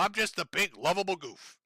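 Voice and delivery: a sneering hint of a faux-innocent goof; mock his aw-shucks self-image; lightly voiced fake lovable goof; mock goofy persona. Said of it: "That's who you present yourself".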